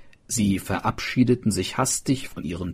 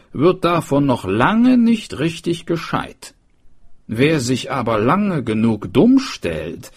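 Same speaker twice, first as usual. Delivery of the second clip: higher, solemn warning voice; worried schoolmaster; 6 semitones higher, 3 dB louder than usual. A narrator's reading. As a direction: warn them gravely.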